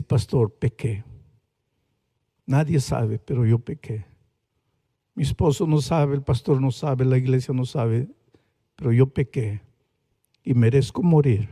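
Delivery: tearful confession. Retold or imitated. A paralysed woman confessing to her pastor through tears. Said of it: "Y ella comenzó a llorar".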